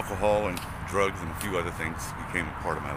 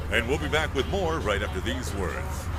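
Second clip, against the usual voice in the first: radio host throwing to a break; smooth on-air announcer read; great radio voice; 3 dB quieter than usual. Shown as a demonstration. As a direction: announce the commercial break like a polished DJ. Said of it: "Say something with that great radio voice".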